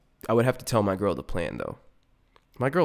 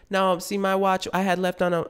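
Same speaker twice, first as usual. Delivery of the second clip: higher protesting driver; pleading delivery driver; 9 semitones higher than usual. Retold or imitated. Pizza driver arguing with a customer, higher protest. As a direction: insist you were on time.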